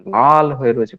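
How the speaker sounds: lightly acted patient pointing at the spot, stressing লাল; mock insistent show-and-tell of a red patch; a patient hamming up a red rash to the doctor; showy patient complaint. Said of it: "কথা বলার টোনটা দেখুন".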